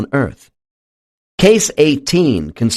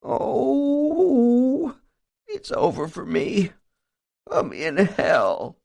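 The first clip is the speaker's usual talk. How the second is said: moaning; 13 semitones higher, much slower than usual. A narrator's reading. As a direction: lament that all is lost. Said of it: "the subject now begins to moan".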